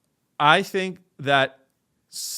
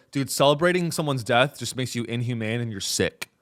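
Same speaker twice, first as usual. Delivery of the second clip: lower-voiced mock moralizer; imitated scold; 5 semitones lower than usual. People scolding anyone who celebrates a death, imitated scold. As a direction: imitate a disapproving dude, pitched down. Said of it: "people, they go".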